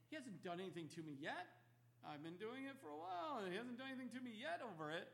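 smug sinner voice, fast and light, going up at the end; a hint of a sinner shrugging off warnings, quick and offhand; mock sinner's excuse. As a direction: play the careless sinner brushing it off.

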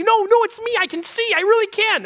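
high, loud, eager insisting; a healed man desperate to be believed; pumped and excited. Retold or imitated. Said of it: "Probably pumped and excited about this situation".

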